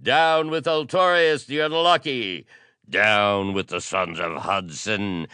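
high, very loud chanted outcry; shrieked cries building to a frenzy; menacing mob shout. A narrator's reading. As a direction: yell slogans like a mob baying for blood. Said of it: "a distant yet menacing shout".

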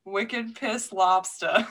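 slow Boston wicked piss lobster; drawn-out mock Boston phrase; Boston accent, slowed down. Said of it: "a true Boston accent".

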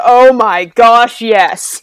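loud, drawn-out eureka; excited realisation. Retold or imitated. Player acting out the moment the idea clicked, excited realisation. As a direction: stretch it out slowly and punch it loud.

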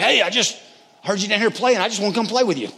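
high, eager, lightly acted invitation; friendly dad. Dad coming downstairs to play with his kid, friendly. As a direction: offer it brightly, pitched well up.

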